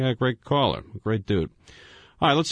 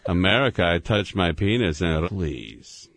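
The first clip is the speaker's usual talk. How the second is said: Yakov Smirnoff; 4 semitones lower, slower than usual. Retold or imitated. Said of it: "Yakov Smirnoff's act".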